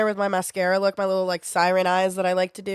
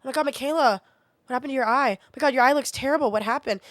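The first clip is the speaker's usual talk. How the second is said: higher, faster mock gasp of concern; mocking nosy people; 4 semitones higher, faster than usual. Mocking commenters who ask about her eye, with a mock gasp. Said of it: "people ask me about my eye".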